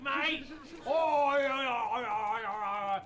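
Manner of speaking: bad Australian accent. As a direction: play a tour guide in a cheesy Australian accent. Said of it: "all about the bad Australian accent express".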